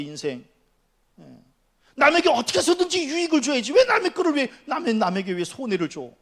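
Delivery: high, loud exhortation with stretched key words; full-force preaching. Acted. Preacher warning the congregation about stealing, forceful. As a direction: drive each question home to the congregation. Preaches against harming others.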